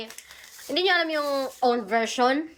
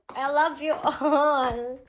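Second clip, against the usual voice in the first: laughing thanks; 3 semitones higher, much slower than usual. Real, not acted.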